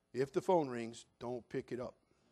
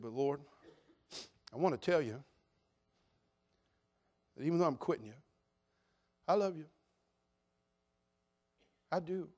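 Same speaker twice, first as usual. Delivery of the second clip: tender prayer; 6 dB quieter than usual. Retold or imitated.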